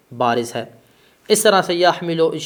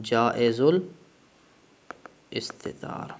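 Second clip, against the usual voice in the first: slow repeat; 4 semitones lower, 6 dB quieter, much slower than usual. Shown as a demonstration. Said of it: "یہ کیا ہے؟".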